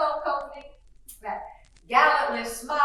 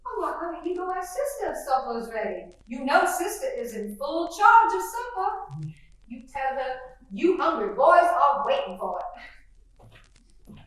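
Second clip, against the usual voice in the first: gushing genteel belle, chattering; lightly voiced Southern mother greeting the guest; fluttery Southern mother. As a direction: play the chatty Southern hostess.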